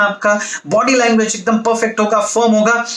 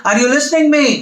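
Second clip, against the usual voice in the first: higher, punchy questions fired at the crowd; attention-grabbing call; 3 semitones higher than usual. Shown as a demonstration. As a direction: wake the audience up with direct questions. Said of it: "आपको उनका attention को grab करना है". (ऊँची, जोशीली आवाज़ में सवाल)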